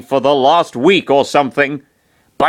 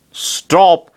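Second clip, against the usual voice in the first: short raised-pitch shout; yelled; 6 semitones higher, 4 dB louder than usual. A narrator's reading. Chris breaks up the bickering, half-yelled. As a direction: call a halt, voice jumping up. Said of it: "Chris yelled".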